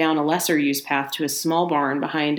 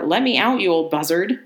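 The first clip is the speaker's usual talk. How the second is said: angry shout; 3 dB louder than usual. Acted. Johnson shouting insults at the old man outside. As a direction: yell through the locked door. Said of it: "shouted Johnson".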